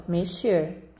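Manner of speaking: teacher sounding out mexer syllable by syllable; slow clear mexer. Shown as a demonstration. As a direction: spell it out slowly: me-xer, with a clear sh sound. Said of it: "ó".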